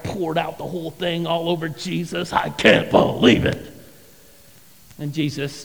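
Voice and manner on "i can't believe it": breathy, hushed grumble; hushed disbelief. Retold or imitated. Disciples muttering about Mary's waste, hushed disbelief.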